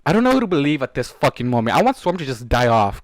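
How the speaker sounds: loud frustrated rant at the book; venting loudly at the story; angry outburst. Real, not acted. Reader ranting angrily at the characters.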